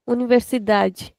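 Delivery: "Universidade" with long "da", ending in "j"; clear open "da". Shown as a demonstration. Teacher improving a student's attempt, clear open DA. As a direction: make the DA in "Universidade" distinct and open. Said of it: "da is very distinct and very clear".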